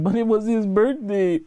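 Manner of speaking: high, put-on pleading voice; mock viewer protest. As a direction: mimic a viewer's feeble excuse in a high voice. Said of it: "some of you be like".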